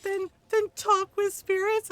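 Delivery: high, loud teasing question; mocking Blackwall. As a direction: needle him with a goofy pestering tone. Blackwall pestering Solas.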